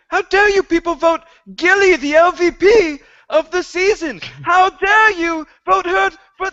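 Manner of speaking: very high, loud outraged wail; squeaky indignant cry of betrayal; Sam voice. Acted. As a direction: shriek it like heartbroken Sam over his Gilly. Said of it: "there's gonna be no more Sam voice".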